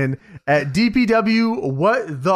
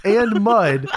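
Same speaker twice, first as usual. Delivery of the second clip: laughing. Real, not acted. Reading silly donor name.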